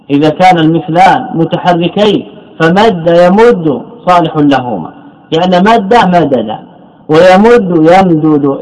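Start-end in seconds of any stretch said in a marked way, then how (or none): 5.6-8.6 slow, each form said out clearly; slow demonstration. Shown as a demonstration. Teacher showing the doubled letters to students, slow and clear. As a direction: lay out each verb form slowly for the class. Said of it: "إذا الحرف الأول متحرك".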